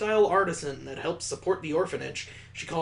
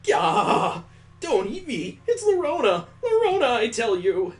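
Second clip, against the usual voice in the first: high, loud shrieking with a laugh in it; panicked scream; 8 semitones higher, 6 dB louder than usual. Acted. Bitten girl shrieking at the child, panicked and high. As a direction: squeal in a panic as you get bitten.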